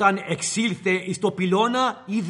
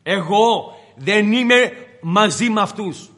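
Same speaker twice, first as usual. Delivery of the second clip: cursing denial. Acted. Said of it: "αναθεμάτιζε".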